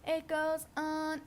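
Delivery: soft, slow, stretched-out words; drawn-out repeat. Pretend. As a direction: stretch each word out softly on a held note. Repeats phrase slowly, held pitch.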